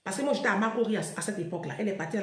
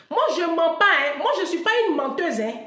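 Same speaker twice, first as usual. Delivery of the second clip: loud insistence; 7 semitones higher, 7 dB louder than usual. Real, not acted. Insists she is not lying.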